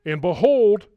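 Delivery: loud, lifted BEHOLD; emphatic proclamation. Real, not acted. Preacher asking listeners to hear the similarities, emphatic proclamation. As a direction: call out "behold" high and strong.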